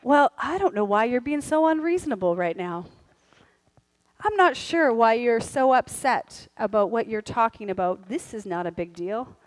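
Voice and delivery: trailing off condescending spouse; mock dismissive. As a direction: brush off the other's upset.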